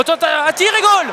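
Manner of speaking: sudden excited goal shout; goal call. Real, not acted. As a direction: jump up on the word goal.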